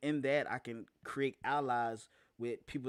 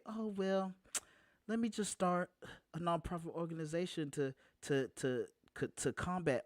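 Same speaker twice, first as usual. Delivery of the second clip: mock casual, higher voice; 6 semitones higher than usual. Mocking calm nonprofit founders.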